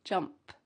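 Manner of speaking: "jump" with a light P puff at the end; light final P. Shown as a demonstration. Teacher stressing the light P ending of "jump". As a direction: release a soft P at the end of "jump". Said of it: "a light P at the end of jump".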